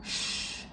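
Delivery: Sh- as a soft unvoiced hiss; sh sound. Shown as a demonstration. Teacher starting students on the sh sound. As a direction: hush quietly through the teeth. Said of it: "start by saying sh".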